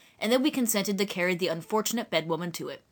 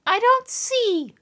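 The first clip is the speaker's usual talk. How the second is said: slow country woman; 4 dB louder, much slower than usual. Acted. Eliza voiced.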